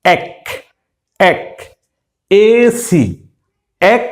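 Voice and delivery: এসি read as এক, clipped ak. Shown as a demonstration. Teacher drills এসি as এক. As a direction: say এক as short ak. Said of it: "এক্সেসঙ্গে মিলে উচ্চারিত হবে".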